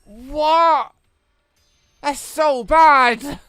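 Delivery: loud, high cries of dismay, last one slowed; dismayed shouts. Real, not acted. Gamer reacting to a bad attack result, loud dismayed shouts. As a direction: yell in disbelief at the result.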